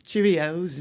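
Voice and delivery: lightly put-on British accent; a hint of British. Shown as a demonstration. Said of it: "What should I say in a British accent?".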